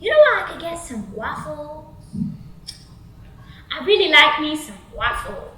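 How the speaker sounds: stretched-out swaggering guy; creepy Devon. Acted. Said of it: "And then he goes".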